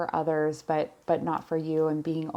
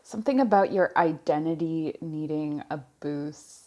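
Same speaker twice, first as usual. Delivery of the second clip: slow, pondering. Real, not acted. Reader taking in messages for a client, slow and fading. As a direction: say it slowly and let the repeat fade. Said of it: "I'm speaking slowly because messages are coming in".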